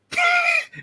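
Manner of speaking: brief high laugh. Real, not acted. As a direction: break off into a quick high laugh. Laughs while making a point.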